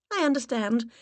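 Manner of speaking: sweet high-pitched put-on voice. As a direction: push the voice way up and play the charming visitor. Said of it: "raised my voice an octave".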